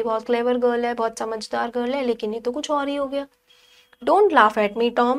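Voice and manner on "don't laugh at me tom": a louder, mild plea; pleading Maggie. Acted. Maggie pleads with her brother Tom, mildly hurt. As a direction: beg him not to laugh. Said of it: "pleaded Maggie".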